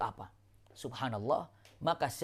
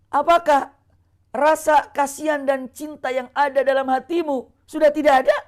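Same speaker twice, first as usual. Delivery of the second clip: stern rebuke; 8 semitones higher, 8 dB louder than usual. Acted. Prophet rebuking Bilal.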